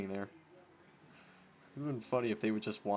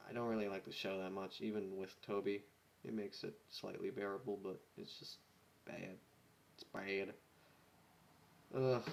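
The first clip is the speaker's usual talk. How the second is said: 1 grumbling; 2 semitones lower, 6 dB quieter than usual. Real, not acted. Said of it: "grumbling rant".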